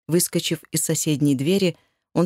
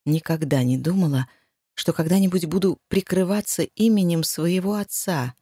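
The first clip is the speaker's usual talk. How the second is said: plain reading voice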